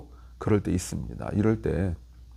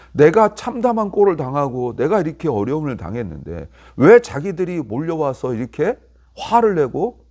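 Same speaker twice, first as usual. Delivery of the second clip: higher-pitched retold protest; 억울한 항변; 5 semitones higher, 4 dB louder than usual. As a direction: voice Job's indignation at being ganged up on. 욥의 항변을 대신 말함. (억울해서 따지는 말투)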